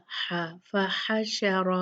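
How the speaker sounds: फहशर ending in a thick heavy रा; slow recitation, heavy raa. Shown as a demonstration. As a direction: make the रा full. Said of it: "रा heavy होगा".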